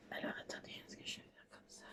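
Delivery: breathy whisper to herself. Real, not acted. Crafter whispering to herself while working. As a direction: whisper as if concentrating hard. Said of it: "Pourquoi je parle tout doucement".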